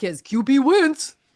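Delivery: loud, high-pitched, dopey meathead voice. Mocking a football argument to make a point, using a dummy guy voice. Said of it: "you can use the dummy guy voice".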